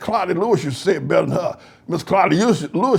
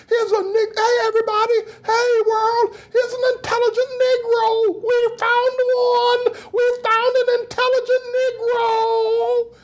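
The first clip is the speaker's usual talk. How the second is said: mock wailing announcement. Mocking white people announcing an intelligent Black man to the world. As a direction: cry it out to the world like a great discovery.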